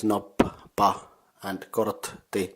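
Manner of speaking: "nop, pa" and "kortti" slowly split at the doubled letters; stressed double consonants. Shown as a demonstration. Teacher warning English speakers about double consonants, "nop, pa, and kortti" split apart. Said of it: "These double consonants are".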